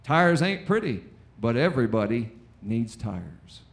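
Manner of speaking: a hint of a folksy tire salesman; mock TV ad man; folksy commercial voice. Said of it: "Here's what the guy said".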